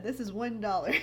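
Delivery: laughing through a mock price quote. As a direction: say it while laughing at the absurd price. Mock quoting a seller's price.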